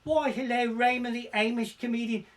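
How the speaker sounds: hammed-up seductive woman on the phone. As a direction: purr it like a flirty caller.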